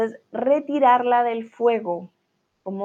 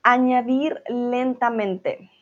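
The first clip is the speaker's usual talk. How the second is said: slow read; 3 semitones higher, slower than usual. Shown as a demonstration. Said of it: "reads recipe step slowly".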